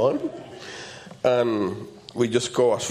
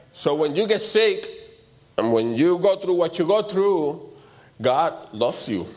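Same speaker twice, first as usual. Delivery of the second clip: higher-pitched sermon build-up; fervent preaching; 5 semitones higher than usual. Real, not acted. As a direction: build toward the point with raised pitch.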